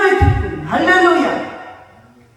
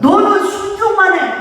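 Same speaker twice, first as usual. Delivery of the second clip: high, loud order to obey; emphatic divine order, raised voice; God's firm command; 7 semitones higher, 6 dB louder than usual. Acted. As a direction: command it forcefully from the pulpit.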